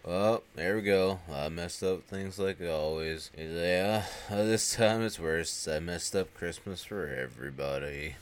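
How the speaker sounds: slow, hangdog confession; mock dejection. Ernest owning up that he messed up Christmas, mock dejected. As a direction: drag it out, lightly imitating a defeated man.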